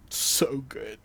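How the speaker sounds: breathy whisper. Retold or imitated. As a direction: whisper it dreamily. Quoting a blissed-out Franco.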